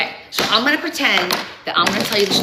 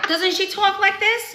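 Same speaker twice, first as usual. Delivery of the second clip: put-on high, New Jersey accent, Valley-girl tune; Rhonda's New Jersey voice; 11 semitones higher than usual. Shown as a demonstration. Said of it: "she talks like this 'cause she's from New Jersey".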